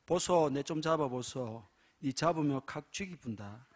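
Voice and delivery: lightly played Gyeongsang dialect, teasing threat; a hint of Gyeongsang dialect with a laugh. Preacher voicing a Gyeongsang husband, in Gyeongsang dialect. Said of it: "경상도 여자".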